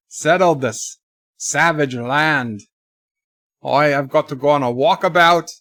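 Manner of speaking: put-on Australian accent; lightly played comic Aussie. Mock Aussie plugging an Outback special to viewers, in an Australian accent. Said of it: "it's my Aussie accent".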